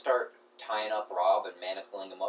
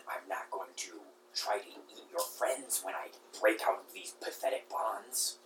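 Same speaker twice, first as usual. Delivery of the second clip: rat voice. Acted.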